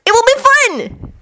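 high-pitched, drawn-out enthusiasm; eager. Acted. Naruto persuades the group, high and excited. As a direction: coax them, stretching it out. Voices Naruto coaxing friends.

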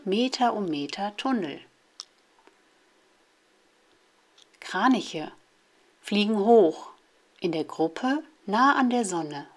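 measured poem reading, line by line; children's poem read out in separate short phrases; poem recitation. Acted. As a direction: recite short poems with a pause after each line. Reads example poems aloud.

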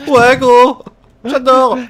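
high, loud gasping words on the in-breath; talking while inhaling. Acted. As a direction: suck the words in as you breathe. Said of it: "pas en inspirant". (parler en inspirant, voix aiguë et forte)

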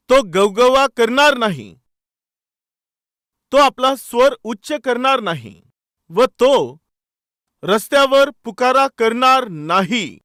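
slow, forceful verse declamation; scripture reading. Acted. Preacher reading Isaiah to the congregation, forceful scripture reading. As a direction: proclaim each clause, pausing between them.

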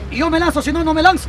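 normal talking voice

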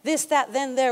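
"this, that, then, there" with English th; English TH demo. Shown as a demonstration. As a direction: show the th sound at the start of "this, that, then, there". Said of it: "T H".

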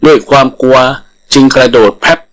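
ordinary delivery, nothing marked

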